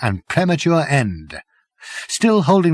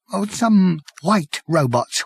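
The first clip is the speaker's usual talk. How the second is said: hoarse whisper; 5 semitones higher, slower than usual. Acted. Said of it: "whispered the man hoarsely".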